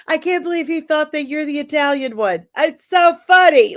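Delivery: high-pitched mock incredulity; imitating disappointed sister. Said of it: "she brings up how disappointed".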